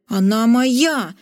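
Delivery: slow, hammed-up angry growl; furious. Zok furious at the knight over the princess. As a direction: claim her fiercely. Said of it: "взъярился Зок".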